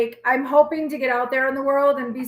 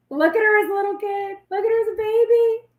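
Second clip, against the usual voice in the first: high-pitched adoring coo; 7 semitones higher than usual. Real, not acted. Mother showing off her daughter's baby picture, cooing.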